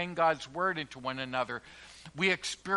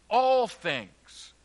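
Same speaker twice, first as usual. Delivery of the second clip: "all" lifted higher and louder, slow; stress on all; 4 semitones higher, 4 dB louder than usual. Shown as a demonstration. Preacher stressing "all things" to the congregation, "all" punched. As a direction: hit the word "all". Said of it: "first for emphasis".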